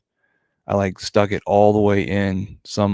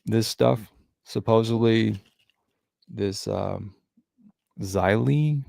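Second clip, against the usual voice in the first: chewing gum. Real, not acted. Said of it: "lately I've picked up some gum chewing".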